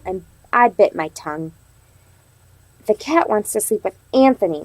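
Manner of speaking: expressive read-aloud for a class; reading to children. Acted. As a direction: tell the story to little kids. Teacher reads story aloud to class.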